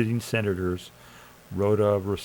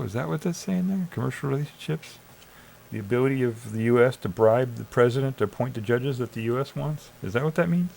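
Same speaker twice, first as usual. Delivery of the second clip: sarcastic questioning; 3 semitones higher than usual. Real, not acted. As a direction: play dumb to mock the phrase. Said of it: "That's sarcasm, by the way".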